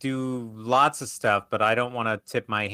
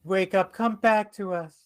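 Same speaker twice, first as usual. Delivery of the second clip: urgent pleading call; 9 semitones higher, 8 dB louder than usual. Pretend. Pleading repeat.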